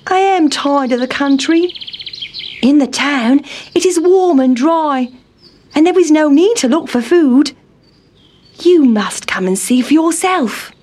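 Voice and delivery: high, whiny little town mouse. A narrator's reading. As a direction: complain as a fussy mouse.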